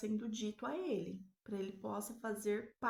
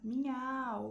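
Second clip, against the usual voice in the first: miau imitado; 3 semitones higher, 4 dB louder than usual. Retold or imitated. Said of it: "Ele faz".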